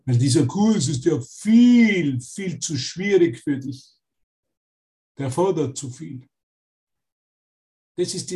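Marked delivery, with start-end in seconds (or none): 0.0-6.3 discouraging ego voice. Retold or imitated. Ego discouraging a student about the course, lightly voiced. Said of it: "Kennst du diese Stimme?".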